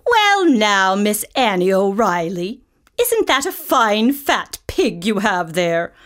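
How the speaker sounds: a jolly butcher eager to buy the pig; lightly voiced eager butcher; butcher Hogan.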